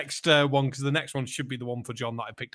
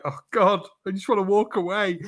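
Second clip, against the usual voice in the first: retold dismay; 5 semitones higher than usual. Retelling hearing a clubber's accent, mock dismay. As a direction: imitate your own exasperated reaction.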